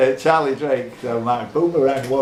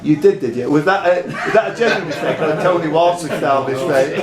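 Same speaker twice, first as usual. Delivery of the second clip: laughing tease. Real, not acted. Teasing a player's mistake.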